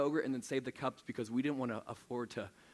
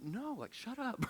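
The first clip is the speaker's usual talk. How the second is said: mock annoyance; 10 semitones higher, 4 dB quieter, slower than usual. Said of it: "I was like".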